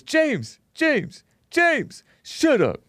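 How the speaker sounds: high sing-song calling, then a flat order; mock chat voice. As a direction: squeak the name like a cartoon voice. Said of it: "And he goes".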